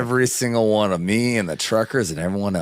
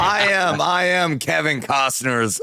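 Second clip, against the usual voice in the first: mock Costner; 3 semitones higher, slower than usual. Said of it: "I saw this dude on Yellowstone".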